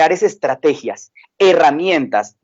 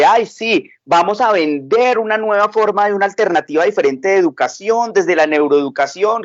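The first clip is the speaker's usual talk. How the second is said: a light mock-enthusiastic sell, pitched up; mocking sales pitch; 3 semitones higher than usual. Speaker mocks neuroeducation sellers with a higher sing-song pitch. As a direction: parody the hype merchants, a little higher.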